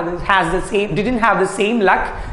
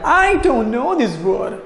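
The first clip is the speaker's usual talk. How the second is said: higher-pitched elf voice; squeaking elf; 4 semitones higher than usual. A narrator's reading. Teacher repeating the elf's question, high squeak. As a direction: lift the voice into a mild elf squeak. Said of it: "the elf squeaked".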